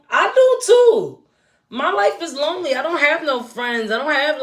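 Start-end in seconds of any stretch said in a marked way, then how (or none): 0.1-1.2 mock sad. Sympathetic lonely aside.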